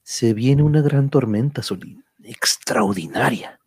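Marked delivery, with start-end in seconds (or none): 2.2-3.6 hushed whisper. Acted. Warning of a coming storm.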